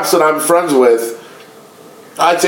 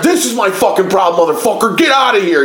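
imitating an angry cop yelling; higher-pitched, mock-yelled order; retold yell; 5 semitones higher than usual. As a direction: re-enact being yelled at, without full volume. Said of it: "he yells at me".

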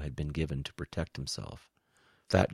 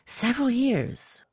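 high, slow, louder alien; high-pitched reptile; 6 dB louder, slower than usual. A narrator's reading. Quiss answers Woe's demand, high-pitched. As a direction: draw it out in a high creature voice.

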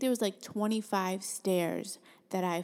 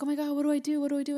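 imitating a panicked man, higher pitch; retold fretting, pitched up in mild alarm; mock panic; 7 semitones higher, 4 dB louder, much faster than usual. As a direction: play a flustered bystander, lightly hammed up. Buyer panics over her fall.

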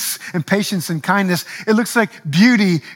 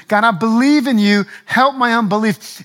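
raised, earnest prayer; urgent plea; 3 semitones higher than usual. Retold or imitated. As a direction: pray it out with urgency. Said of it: "most of us ... can relate to".

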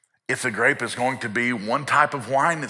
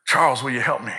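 earnest ask; faster than usual. Retold or imitated. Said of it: "he looks and he says".

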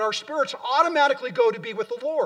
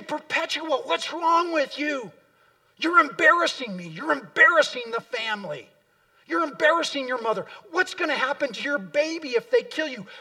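higher, pleading father's voice, stressing embarrassing; a worried father pleading with his daughter in prison; 5 semitones higher than usual. Retold or imitated. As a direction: beg her as her upset father. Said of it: "he would plead with her".

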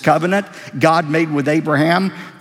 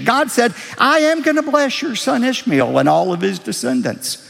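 higher, slowed preaching of God's words; preaching scripture; 7 semitones higher than usual. Acted. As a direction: proclaim the promise like a preacher. Preacher voicing God's promise.

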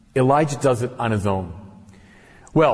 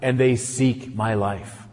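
a touch of proud, hurt prophet; lightly voiced Elijah, slowing on I alone am left; self-assertion and wounded pride. Elijah answering God with wounded pride. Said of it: "tones of self-assertion and wounded pride".

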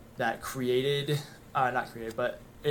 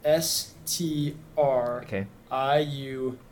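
spelling it out; 2 semitones higher, 4 dB louder, much slower than usual. Shown as a demonstration. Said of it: "let me see if I can't spell it".

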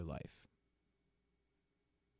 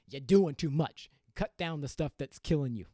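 emphatic plea; 5 semitones higher, 8 dB louder than usual. Real, not acted. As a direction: insist like a worried friend. Urging listener to cut down.

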